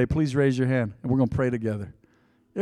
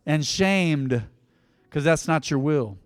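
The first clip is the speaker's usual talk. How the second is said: earnest prayer for the congregation to repeat. Acted. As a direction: lead the prayer line by line.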